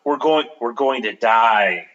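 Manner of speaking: slow, low frantic repetition; a touch of panic in her head. Acted. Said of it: "she thought frantically".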